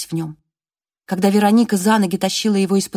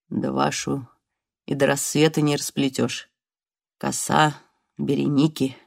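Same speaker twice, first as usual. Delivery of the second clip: smiling voice; 4 semitones lower than usual. Acted. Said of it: "Улыбка, которую она расслышала в его голосе".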